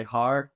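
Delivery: "Har" as one syllable like par; simple one-syllable "Har"; rhymes with par. Shown as a demonstration. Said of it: "like par".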